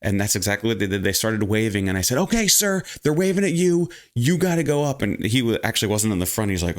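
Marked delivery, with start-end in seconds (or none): 2.2-5.0 pointed urging. Retold or imitated. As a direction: push him forward, retold half-shout. Urging man to go up.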